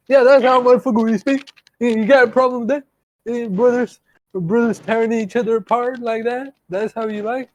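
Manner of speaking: high, hurried mock Black-American accent. Oblivious actor confronting his co-star, high mock Black-American voice. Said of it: "this guy, R D J, he don't understand".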